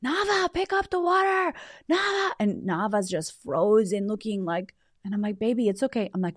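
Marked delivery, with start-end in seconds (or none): 0.0-2.3 put-on high-pitched child copying a frantic parent; Raven. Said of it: "I hear Raven". 5.4-6.1 gently calm a frightened little one; soothing. Retold or imitated. Retold soothing of frightened child.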